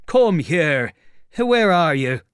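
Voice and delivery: high, loud demand to show himself; agitated tramp shouting; loud challenge. Acted. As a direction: call the hidden speaker out. Tramp challenges the unseen speaker.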